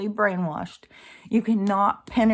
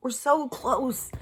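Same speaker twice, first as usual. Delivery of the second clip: slow; 5 semitones higher, slower than usual. Real, not acted. Exasperated emphasis.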